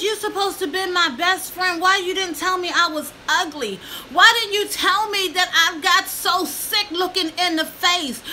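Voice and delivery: retold tearful plea. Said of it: "I cried, real tears".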